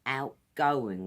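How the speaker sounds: outgoing said as one smooth word; run together. Shown as a demonstration. Teacher showing learners outgoing said all together. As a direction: blend outgoing into one sweep. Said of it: "We kind of say it all together".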